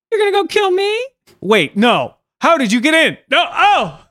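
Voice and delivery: put-on a spooky kid crashing the show; creepy little boy voice. Speaker plays the creepy boy.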